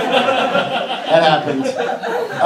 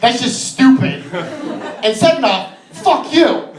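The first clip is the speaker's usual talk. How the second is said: acted scolding, jumping higher at the end; mock indignant telling-off; 4 semitones higher than usual. Comic imagines insulting the rude woman, mock indignant. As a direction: build to a punchy mock insult.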